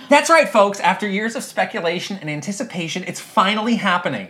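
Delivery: announcer reading breaking news; podcast host read. Acted. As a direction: hype the announcement. Reading a podcast script aloud.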